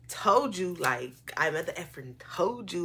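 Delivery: loud, pitch up, hammered told you; snapping at him as she imagines it; retold telling-off.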